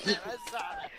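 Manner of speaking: high, laughing squeak; squeaky reveal. Real, not acted. (voz fininha rindo)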